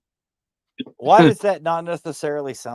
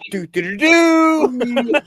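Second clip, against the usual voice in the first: voice changer; 10 semitones higher, 5 dB louder, much slower than usual. Pretend. Playing with a voice changer.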